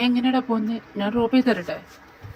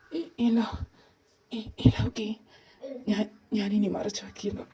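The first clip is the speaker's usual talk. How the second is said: stammering whisper; 3 dB quieter than usual. Acted. Caught hiding something, stammering reply.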